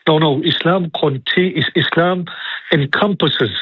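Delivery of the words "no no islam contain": ordinary talk, nothing marked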